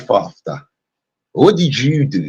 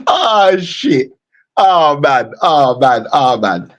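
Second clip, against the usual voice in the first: laughing; slower than usual. Real, not acted. Laughing at the video.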